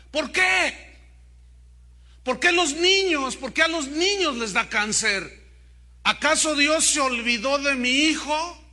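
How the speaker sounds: dismayed mother. A narrator's reading. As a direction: cry out at the unfairness. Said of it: "Susi dijo consternada". (madre consternada, preguntas agudas y angustiadas)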